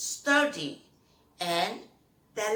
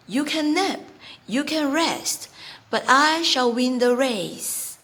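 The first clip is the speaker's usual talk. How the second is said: higher, louder, resolute tortoise; determined tortoise; 4 semitones higher, 9 dB louder than usual. Acted. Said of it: "Mister Rock thinks to himself".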